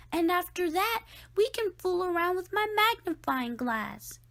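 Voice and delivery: high, loud eager rush; excited Reggie. A narrator's reading. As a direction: bubble over with plans. Reggie excitedly listing plans.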